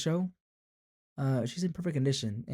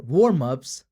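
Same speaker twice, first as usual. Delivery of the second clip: surprised; 9 dB louder than usual. Acted. Character reacts to question.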